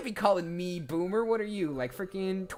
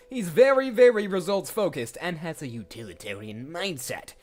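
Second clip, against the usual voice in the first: goofy show-off Steve; 5 dB louder than usual. Shown as a demonstration. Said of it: "I'm getting this kind of vibe from him".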